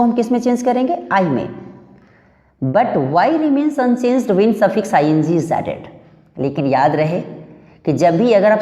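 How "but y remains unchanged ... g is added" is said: slow, careful dictation of the rule; reading the rule aloud. Shown as a demonstration. Teacher dictating the rule to students, slowly and deliberately. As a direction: spell out the rule word by word for the class.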